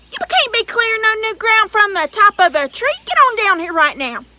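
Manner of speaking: high, loud giant demand; giant ordering. Acted. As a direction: boss the boy down as the giant.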